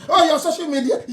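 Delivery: high, laughing jeer; mocking laugh. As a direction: laugh it out as they did. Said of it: "some of you are laughing".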